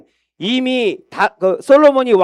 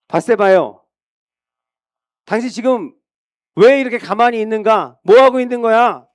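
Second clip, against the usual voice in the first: urgent rebuke; 4 semitones higher than usual. Acted. Prophet scolding Bathsheba for doing nothing, raised voice. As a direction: shake her out of sitting still.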